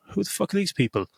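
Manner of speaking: puzzled, high-pitched disbelief, acted; baffled viewer.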